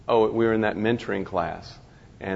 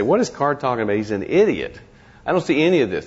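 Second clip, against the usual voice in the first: a hint of a scoffing reader, rising louder; mock skeptical reader; 3 semitones higher, 3 dB louder than usual. Doubting student scoffing at the teacher, mock scornful. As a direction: lightly voice a doubter waving off the speaker. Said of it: "You may read this and say".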